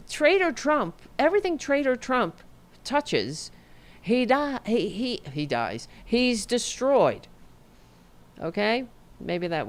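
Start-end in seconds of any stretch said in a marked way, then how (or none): 0.1-7.3 Miss Cleo. Acted. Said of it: "Miss Cleo coming out of me".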